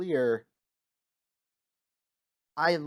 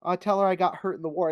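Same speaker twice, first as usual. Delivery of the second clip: lightly voiced naive kid, a bit higher and louder; mock-innocent suggestion, pitched up; innocent childlike reply; 5 semitones higher, 5 dB louder, faster than usual. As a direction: offer it eagerly like a child with an idea. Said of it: "this innocent, childlike response of".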